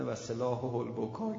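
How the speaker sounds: slow, chant-like Arabic recitation of و سلاح البکا; reciting the prayer. Retold or imitated. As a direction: intone و سلاح البکا like a supplication. (و سلاح البکا را آهسته و دعاگونه بخوان)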